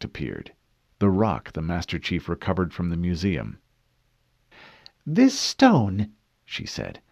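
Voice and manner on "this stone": cool female interrogator. Acted.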